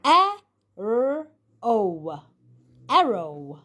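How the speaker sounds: B-O sounded out, then bow said with a long O; sound out then blend. Shown as a demonstration. Teacher models the long O word for the class, clear and deliberate. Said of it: "it can sound like O".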